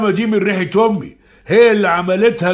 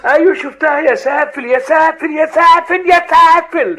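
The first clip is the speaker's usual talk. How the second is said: louder, higher repeated scolding; 8 semitones higher, 4 dB louder than usual. Acted. Father berating his son over the girl. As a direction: hammer each insult home.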